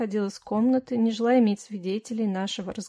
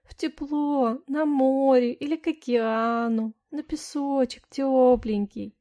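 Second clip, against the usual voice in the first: whining; 4 semitones higher, 3 dB louder, slower than usual. Acted. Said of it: "захныкала я".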